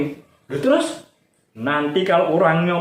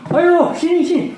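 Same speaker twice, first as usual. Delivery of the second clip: high, louder taunt to come closer; mock dare; 13 semitones higher, 4 dB louder than usual. Storyteller calls the enemy to come closer, loud taunt. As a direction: beckon the enemy with a challenge.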